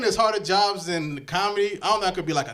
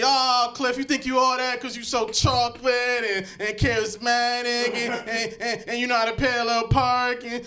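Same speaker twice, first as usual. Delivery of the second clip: higher-pitched mock girl taunting him; put-on girl voice, pitched up; imitated girl; 4 semitones higher than usual. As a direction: play a girl needling a man, tripping over "and". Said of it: "like a girl coming to me".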